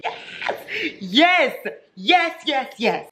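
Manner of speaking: high, laughing yeses. Real, not acted. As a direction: giggle it out with relief. Delight over POV.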